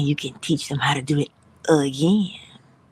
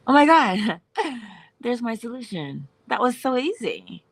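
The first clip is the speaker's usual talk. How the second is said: delighted surprise; 6 semitones higher than usual. Pretend. You remember the solution.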